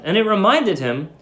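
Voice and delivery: ordinary delivery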